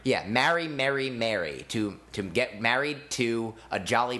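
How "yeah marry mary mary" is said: "marry, Mary, Mary" with each vowel kept apart; "marry, Mary, Mary" carefully distinguished; three different vowels. Shown as a demonstration. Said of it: "I say it three different ways".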